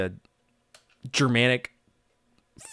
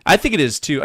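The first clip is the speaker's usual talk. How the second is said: voice cracking up an octave; 4 semitones higher, 6 dB louder than usual. Real, not acted. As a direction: voice breaking high. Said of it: "wow, my voice cracked".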